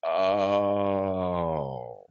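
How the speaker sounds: deflated oh. Retold or imitated. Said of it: "the air come out of their balloon".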